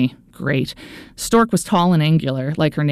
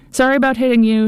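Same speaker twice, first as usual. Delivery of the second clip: high, louder call while skating past; called over shoulder; 8 semitones higher, 3 dB louder than usual. A narrator's reading. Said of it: "she called over her shoulder".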